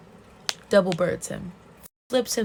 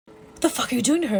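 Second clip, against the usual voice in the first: raised, louder retold challenge; mock angry outburst; 5 semitones higher, 5 dB louder, faster than usual. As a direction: confront him with acted outrage. Acted angry confrontation in story.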